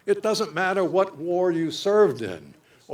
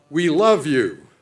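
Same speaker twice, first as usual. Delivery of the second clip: louder, a second voice ringing out from the crowd; called out; 6 dB louder than usual. Retold or imitated. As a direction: call it out with open affection. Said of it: "somebody else cried out".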